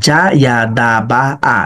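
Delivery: "জা ইয়া দা বা আ" linked in one unbroken run; joined-up reading. Shown as a demonstration. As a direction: run the syllables together evenly, no pauses. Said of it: "এখন পড়াটাকে আপনি split করেন". (একটানা মিলিয়ে পড়া)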